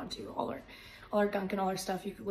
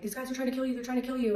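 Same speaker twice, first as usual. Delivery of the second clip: raised, louder re-enacted alert; pressing, repeated warning; urgent warning; 5 semitones higher, 4 dB louder, faster than usual. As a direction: imitate warning someone in danger. Retold warning to the boxer.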